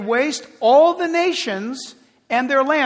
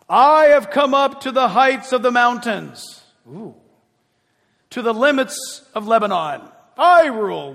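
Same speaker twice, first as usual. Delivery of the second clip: boastful Satan-like king; 5 dB louder than usual. Acted. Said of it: "Listen to this".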